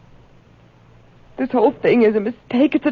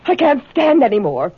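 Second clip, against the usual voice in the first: louder, cracking plea; desperate protest; 3 semitones higher, 3 dB louder than usual. Acted. Accused woman begs rival to stop, louder desperate protest. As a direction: cut her off, desperate.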